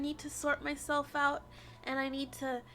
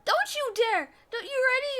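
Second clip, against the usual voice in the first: angry shout; 6 semitones higher, 5 dB louder than usual. Real, not acted. Shouting at villain in game.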